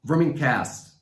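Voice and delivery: Vermicast said clearly as a standalone word; clarified pronunciation. Shown as a demonstration. Speaker repeats the word for a puzzled questioner, clarified pronunciation. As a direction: say Vermicast distinctly for someone who missed it. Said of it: "what is the first word".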